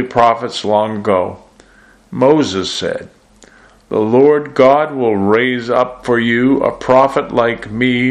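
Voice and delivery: measured, solemn Bible reading to the congregation; scripture reading. Acted. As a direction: read the passage aloud with weight and pauses. Reads scripture before sermon.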